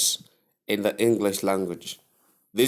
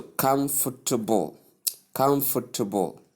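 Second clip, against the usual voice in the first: COMFORTABLE as KUM-fuh-tuh-bul; first-syllable stress. Shown as a demonstration. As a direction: punch "kum" in "comfortable", suppress the middle. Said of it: "stress on the first syllable".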